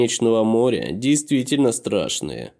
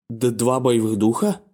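stunned stammer. A narrator's reading. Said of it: "были ошеломлены".

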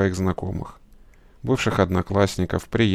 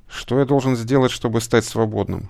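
plain reading voice

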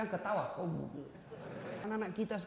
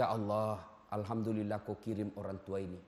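mock prayer; 12 semitones lower, 7 dB quieter than usual. Acting out a grateful prayer.

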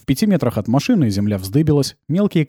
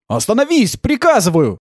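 higher, loud command; shouting; 10 semitones higher, 3 dB louder than usual. Acted. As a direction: yell the order from the floor. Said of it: "кричал Кир".

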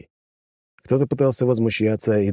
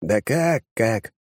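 displeased; 2 semitones higher, much slower than usual. Acted. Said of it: "недовольно дёрнул плечом".

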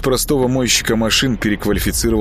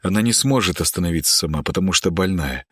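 sincere plea. Acted. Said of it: "Слова просто текли из меня, и они были искренни".

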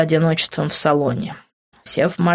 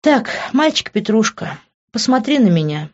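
higher, firm commanding tone; strict command; stern order; 7 semitones higher than usual. A narrator's reading. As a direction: order him to look at her. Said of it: "строго приказала она".

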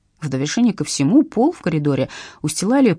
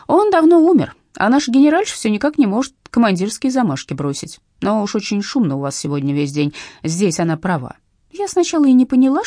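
put-on old lady voice; 3 dB louder than usual. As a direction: pitch it up like a frail granny. Old neighbour gossips.

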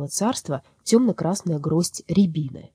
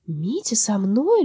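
amused disbelief; 5 semitones higher, much slower than usual. Acted. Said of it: "звонко рассмеялась".

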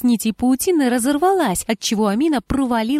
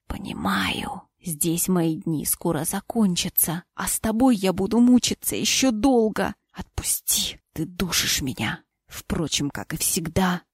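soft, low bitter whisper; 3 semitones lower, 4 dB quieter, slower than usual. Acted. Dying husband rejecting his wife, bitter whisper. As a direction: sneer it under your breath.

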